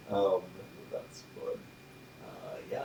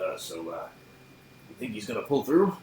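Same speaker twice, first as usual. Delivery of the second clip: pirate voice; 3 semitones higher, 4 dB louder than usual. Acted. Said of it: "It's hard to do the pirate voice without screaming".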